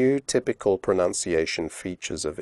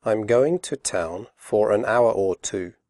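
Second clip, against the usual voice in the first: slowly. Shown as a demonstration. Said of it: "first slowly and then quickly".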